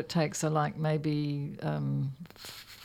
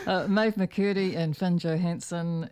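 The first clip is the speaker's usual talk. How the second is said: slow radio host read; slower than usual. Acted. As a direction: sign off like a DJ. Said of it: "I said that in a very D J voice".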